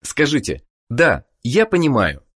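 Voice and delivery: ordinary talk, nothing marked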